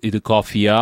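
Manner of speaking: closed question carried on the last vowel of "காஃபியா"; inflected question. Shown as a demonstration. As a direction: lean on the ending "aa" of "காஃபியா". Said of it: "there is an inflection".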